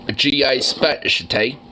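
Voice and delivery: a hint of British accent; accidental British accent. Real, not acted. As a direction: slip briefly into a British accent. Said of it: "came out British".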